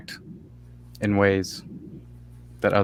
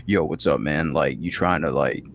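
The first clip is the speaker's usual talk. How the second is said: lower, swaggering dude voice; dominant low guy; 5 semitones lower than usual. Retold or imitated. Somebody coming in dominant, low tough greeting. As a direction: drop it low and act tough. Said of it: "a lower voice conveys more dominance".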